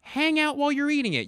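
big bear voice, high and far; booming kids' show bear; making a point. Shown as a demonstration. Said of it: "That's how I speak when I'm making a point".

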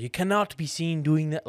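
rough South African imitation; South African accent. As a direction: quote him in a loose South African accent. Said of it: "he was South African".

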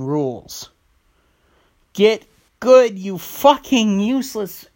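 mock-furious rant, swelling to a shout; angry rant at hackers. Ranting at a cheating gamer, annoyed and shouting. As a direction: tear into the cheater, then yell get good. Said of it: "I'm a little bit annoyed".

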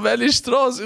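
can barely get the question out for laughing; laughing through the quote. Retold or imitated. Retelling driver, laughing hard. (lachend, viel höher gesprochen)

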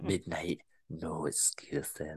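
whispered, low and very slow; repeating the line as a creepy whisper. Shown as a demonstration. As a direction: breathe it like a threat. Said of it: "I creep myself out saying that".

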